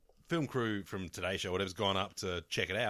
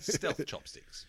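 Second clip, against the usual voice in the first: slow breathy whisper; whispered aside; 7 semitones higher, much slower than usual. Pretend. A joking whisper about stealth chopsticks to the co-hosts. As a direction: breathe it out slowly. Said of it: "joke whisper".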